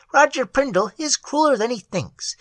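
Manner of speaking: tiny troll voice. A narrator's reading. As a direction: sigh it like a sad tiny sprite.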